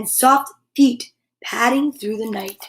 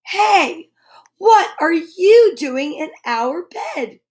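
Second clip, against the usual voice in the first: angry shout; 4 semitones higher, 3 dB louder, slower than usual. Acted. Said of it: "shouted six angry cats".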